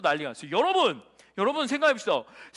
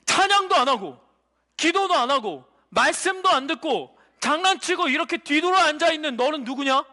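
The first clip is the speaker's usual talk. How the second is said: forceful list building to a question; accusing challenge. Acted. Demon accusing child who skips praise and prayer, forceful challenge. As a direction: hammer out each charge, then confront.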